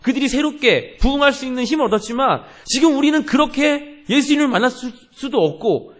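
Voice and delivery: high, loud, driving pulpit delivery; forceful preaching. Real, not acted. Pastor urging congregation to cling to God's promise, forceful preaching.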